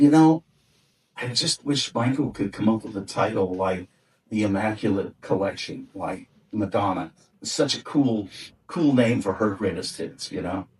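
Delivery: soft, wistful longing, trailing off; wistfully. Retold or imitated. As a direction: sigh it out like you wish you had thought of it. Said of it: "very wistfully".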